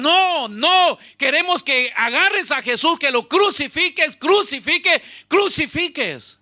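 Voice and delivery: loud, high demanding yell; crowd shouting. Acted. The crowd shouts at Pilate to crucify Jesus, loud and high. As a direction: roar it like an angry mob.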